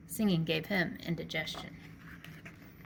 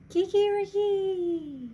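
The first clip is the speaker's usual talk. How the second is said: high, slow, ringing rooster crow; loud drawn-out cock-a-doodle; 14 semitones higher, 7 dB louder, much slower than usual. Acted. Rooster crows in story.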